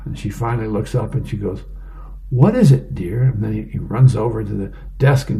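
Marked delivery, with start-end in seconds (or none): 2.3-3.2 high, questioning wife voice; comic-strip wife. Acted. Wife finally looking up at her husband, high questioning voice.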